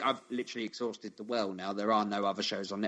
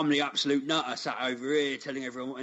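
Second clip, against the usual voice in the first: mock Cockney brag; 4 semitones higher than usual. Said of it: "he doesn't have a Cockney accent".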